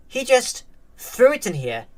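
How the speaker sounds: high, hurt little outburst; pained. A narrator's reading. Sister tells mom what her brother did, pained. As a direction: let the hurt push the pitch up. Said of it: "the pain in her voice".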